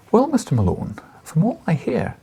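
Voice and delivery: a hint of a Scottish editor; lightly voiced old Scottish news editor; gentle Scottish lilt on an old editor; light Scottish accent. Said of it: "he said in his light Scottish accent".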